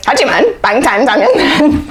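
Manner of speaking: fast, high boxing announcer hype. Shown as a demonstration. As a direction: rattle it off like a ring announcer. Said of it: "Do as much as you can".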